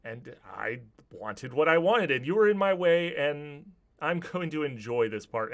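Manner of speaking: vengeful villain. Acted. Bertram answers Alfred before killing him, vengeful.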